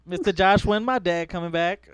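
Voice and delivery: lightly voiced little kid; schoolkid. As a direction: imitate a child pleading with teacher. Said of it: "They used to call me Mister Josh".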